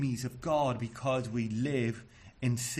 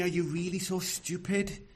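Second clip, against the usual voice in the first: higher-pitched, incredulous question; exasperated; 5 semitones higher than usual. Acted. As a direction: ask it in mild exasperated disbelief. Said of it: "because he is exasperated".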